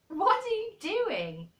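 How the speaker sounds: high, loud, drawn-out question; amused astonishment. A narrator's reading. Boy startled by his friend's Yorkshire talk, amused astonishment. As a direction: exclaim it slowly in high surprise. Colin laughs, amazed at the dialect.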